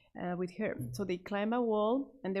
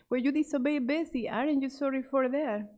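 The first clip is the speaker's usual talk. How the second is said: scolding; 5 semitones higher, 5 dB louder than usual. A narrator's reading. Mother lecturing daughter.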